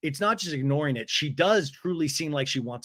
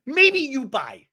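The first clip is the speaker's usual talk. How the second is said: higher, very slow sing-song mimic of a curt line; mocking imitation; 11 semitones higher, 5 dB louder, much slower than usual. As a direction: drag out every word mockingly. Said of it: "she goes".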